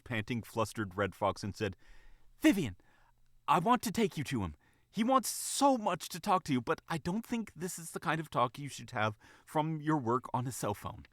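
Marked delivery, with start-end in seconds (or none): 2.4-11.0 high, earnest, authoritative bunny; air of authority. Acted. Bunny advising the fox mother, with authority. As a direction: take charge in a higher voice, easing down at the end. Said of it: "spoke with an air of authority".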